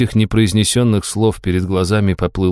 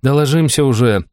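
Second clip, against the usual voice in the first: exasperated; 5 semitones higher than usual. Acted. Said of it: "закатив глаза".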